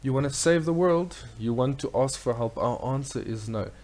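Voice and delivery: high, loud, shrill bird woman; a screechy harpy calling out. Acted. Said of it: "maybe I shouldn't do the voice".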